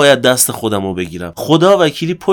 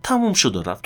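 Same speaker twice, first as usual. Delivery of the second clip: softer, settled repeat; quiet close; 6 dB quieter than usual. Acted. Repeating his own catchphrase to listeners, softer and settled. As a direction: let it fall away calmly.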